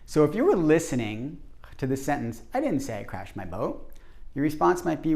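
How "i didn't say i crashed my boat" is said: "didn't" carries the emphasis; stress on DIDN'T. Shown as a demonstration. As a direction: lean on "didn't", rising at the end. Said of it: "I naturally stress the word didn't".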